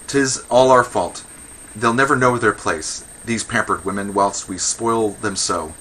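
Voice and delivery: lightly voiced pompous official; indignant Magistrate. Magistrate complaining of wanton women, mildly indignant declamation.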